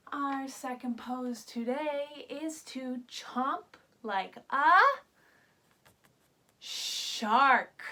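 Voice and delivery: playful buildup to the shark reveal; building reveal. Shown as a demonstration. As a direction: hold back, then pounce on the animal. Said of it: "teacher builds to the reveal".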